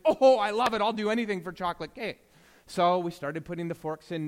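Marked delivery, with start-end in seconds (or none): 0.0-2.2 loud, fast burst of delight; mock-excited daughter grabbing the deal; eager kid. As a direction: gush like a kid offered cake. Daughter jumps at cake bribe.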